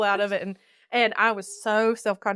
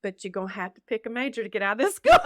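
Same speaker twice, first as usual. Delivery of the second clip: gentle counselor. Retold or imitated. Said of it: "taking my hand and saying".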